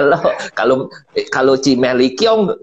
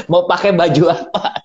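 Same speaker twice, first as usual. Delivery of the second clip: ordinary talk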